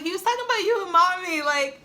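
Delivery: mock-tearful plea to her father; retold bawling. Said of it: "I was bawling".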